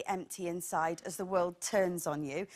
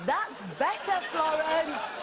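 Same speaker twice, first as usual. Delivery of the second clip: patronising; 4 semitones higher, slower than usual. Acted. Patronising line to Florence.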